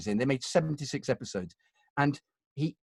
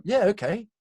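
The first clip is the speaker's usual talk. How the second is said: breezy compliance; 6 semitones higher than usual. Retold or imitated. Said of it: "you go".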